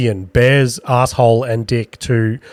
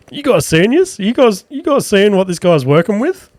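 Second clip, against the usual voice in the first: much higher, gushing mock excitement; mock impressed; 8 semitones higher than usual. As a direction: hype it up like you're amazed. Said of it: "I was just like".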